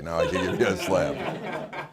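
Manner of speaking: slow, laughing punchline; laughing through it. Retold or imitated. Father to son after two weeks, slow and laughing. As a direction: chuckle the words out slowly. Punchline of rabbi's slap joke.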